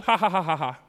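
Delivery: mock "ha ha" chuckle; string out deliberate fake chuckles; imitated chuckle. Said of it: "And so we chuckled".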